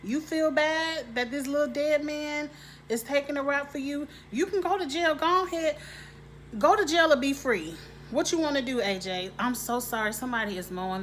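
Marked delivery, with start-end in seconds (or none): 0.0-9.3 lightly acted confrontation, pitched higher; mildly mock-tough talking-to; confronting as Grace. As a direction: hand down a pushy ultimatum, higher than usual. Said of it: "I would've said".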